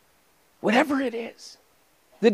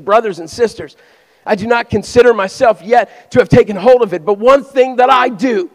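loud, emphatic scripture reading; forceful scripture preaching; 6 semitones higher, 9 dB louder than usual. Real, not acted. Preacher quotes Paul to the congregation, forceful proclamation. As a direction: proclaim the verse loud, pitch lifting.

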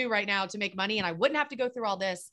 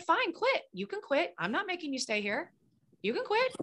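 blunt dare; 6 semitones higher than usual. Retold or imitated. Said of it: "someone just has to be like".

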